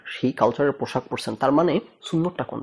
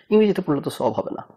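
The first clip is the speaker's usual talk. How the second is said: quick, slightly higher quoted retort; blurted objection; 4 semitones higher, faster than usual. Retold or imitated. Cleric-type man instantly objecting to English reading, quick blurted retort. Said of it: "ওনার first করে ফট করে উনি প্রথম কথাটাই হইতেছে".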